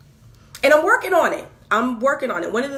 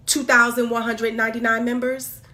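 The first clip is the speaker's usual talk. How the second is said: retold griping at the pastor; exasperated confrontation. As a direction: pester him with indignant questions. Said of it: "was like".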